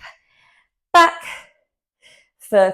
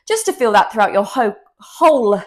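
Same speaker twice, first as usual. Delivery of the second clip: too winded to speak; gasping mid-sentence; out of breath. Real, not acted. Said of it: "Couldn't speak then".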